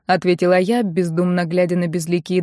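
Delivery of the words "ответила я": ordinary delivery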